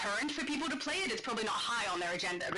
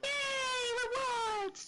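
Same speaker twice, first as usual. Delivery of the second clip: excited; 14 semitones higher, much slower than usual. Real, not acted. Cheering at game rewards.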